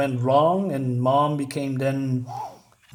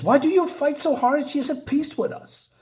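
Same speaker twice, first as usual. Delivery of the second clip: higher, eerie creature voice; creepy creature; 11 semitones higher than usual. Retold or imitated. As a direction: pitch it up like an eerie monster. Snake creature speaks, retold.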